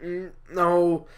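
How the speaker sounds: theatrical, emphatic monologue delivery; lightly acted prophet, musing aloud; Jonah changing the subject. Jonah recalling his beloved vine to an audience, declaimed.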